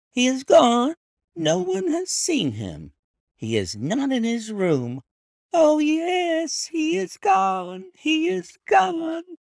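high, loud, unhinged maid, shouting; hysterical maid. A narrator's reading. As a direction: let her break into hysteria, slowing on the last words. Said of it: "hysterical attack".

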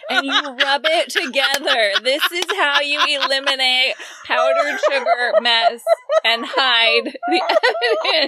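high, laughing confession. Real, not acted. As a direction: giggle through a guilty secret. Laughing confession about powdered sugar.

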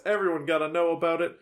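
fast, run-together line; quick delivery. Real, not acted. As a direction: rattle it off quickly. Same line said quickly, then slowly.

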